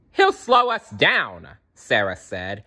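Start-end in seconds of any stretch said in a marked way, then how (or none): 0.1-1.5 put-on whiny girl. A narrator's reading. Sarah objects.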